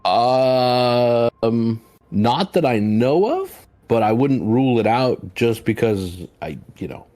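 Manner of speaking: drawn-out, halting, unsure answer; hesitant stammering. Acted. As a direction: stall and stumble over the words. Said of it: "That's why I was stammering back there".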